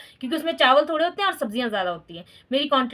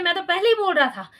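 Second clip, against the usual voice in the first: mock husband's told-you-so; 3 semitones higher than usual. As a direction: play the husband gloating that he said so first. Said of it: "कहते".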